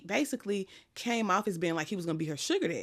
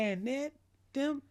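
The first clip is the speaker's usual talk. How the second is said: whisper; 6 semitones higher than usual. Real, not acted. Continues the hushed telling.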